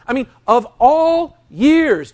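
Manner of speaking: lightly voiced mother scolding her son; mild mock scolding. Mary scolding Jesus, voiced.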